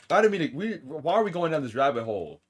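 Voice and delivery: high, loud flustered protest; half-laughing loud denial. Real, not acted. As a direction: protest loudly, caught off guard. Streamer protesting chat.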